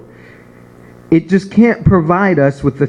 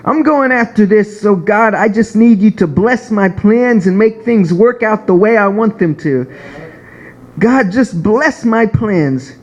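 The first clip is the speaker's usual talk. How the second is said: higher, earnest begging prayer voice; pleading prayer; 3 semitones higher than usual. Retold or imitated. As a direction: plead with God for blessing. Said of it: "We say".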